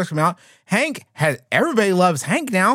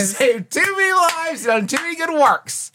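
mock scolding; 6 semitones higher than usual.

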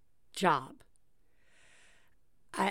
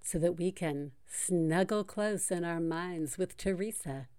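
sexy radio voice; 3 semitones lower, 6 dB quieter than usual. Pretend. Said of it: "sexy radio voice".

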